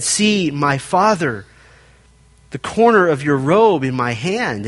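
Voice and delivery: slow, gentle plea; tender. Retold or imitated. David shows Saul the robe corner, mildly tender. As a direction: soften it like a son to his father. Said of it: "David said very tenderly".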